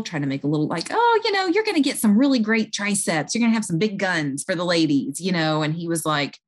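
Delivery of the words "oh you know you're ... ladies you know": jolly him along with a tease; light joking. Retold or imitated. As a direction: nurse joking with an upset patient to lighten the mood. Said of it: "trying to kind of joke a little".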